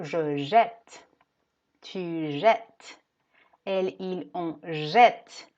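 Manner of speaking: jette said loud with an open è. Shown as a demonstration. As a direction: stress the open vowel of jette. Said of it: "se va a abrir ese sonido".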